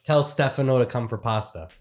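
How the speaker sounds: lightly voiced Italian grandmother; a hint of an Italian nonna accent. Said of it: "Let's hear the grandmother".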